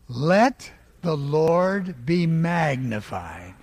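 slow, even, unhurried; calm and slow. Shown as a demonstration. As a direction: say it calmly, first of three. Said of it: "Just say it calmly".

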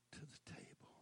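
hushed altar call; whispered close. Acted. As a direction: drop to a whisper. Preacher drops to whisper.

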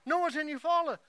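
put-on high, loud playful old lady voice; old woman teasing from heaven. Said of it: "looking down and says".

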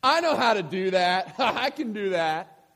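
put-on loud show-off kid yelling, with a laugh; yelled boast. A big boy yelling a boast at the playground, loud. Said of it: "he yells out".

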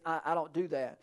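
dropped to a near hush, very soft; soft voice of God. Acted. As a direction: hush it right down to show how God speaks. God's quiet voice contrasted with loud.

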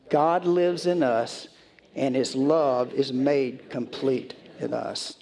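slow, measured reading of scripture; slow, reverent Bible reading to the congregation. Acted. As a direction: read the passage slowly and solemnly. Reads the scripture passage aloud.

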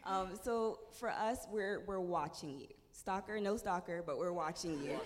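strained, worn-out voice; voice giving out. Real, not acted. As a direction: push through a failing voice. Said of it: "my voice is giving out a lot".

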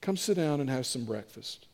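soft, low, near-whispered invitation; gentle hushed invitation. Acted. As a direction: drop low and invite them in quietly. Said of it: "would hear Jesus whisper".

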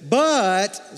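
a lift of hope on but; hopeful, rising "But". Shown as a demonstration. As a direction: say but like a lifeline. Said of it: "You have to say it like this".

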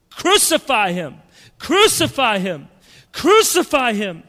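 loud rising chant; horrific mob cry. Retold or imitated. Preacher voicing the crowd, a horrific rising shout. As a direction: build the mob's cry each time. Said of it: "It's a horrific cry".

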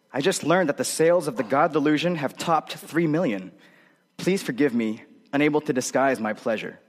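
smug, self-satisfied read; snobby voice. Retold or imitated. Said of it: "I said it in such a snobby voice".

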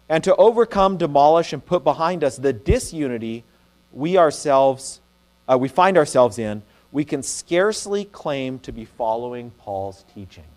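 quoted reading. Acted. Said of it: "N T Wright comments".

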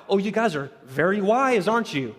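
mock praise with a snarky edge; lightly sarcastic jab at their pride. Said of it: "very sort of sarcastic, snarky tone".

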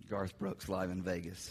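low, soft, slow mumble; sheepish low mumble; under my breath. Retold or imitated. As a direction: admit it reluctantly, barely audible. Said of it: "I kinda said that under my breath".

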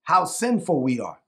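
slow, deliberate scripture reading with pauses between phrases; measured reading, letting each phrase land; real slow reading. Real, not acted. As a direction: read it phrase by phrase, unhurried. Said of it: "I'm gonna read this real slow".

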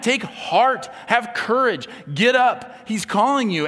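loud, high, urgent call. Acted. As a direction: shout the summons across the crowd. Crowd calls the blind man.

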